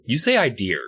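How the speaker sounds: "idea" ending in a hard r; mocking "idea" with an r on the end; intrusive r. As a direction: say "idea" as eye-DEER.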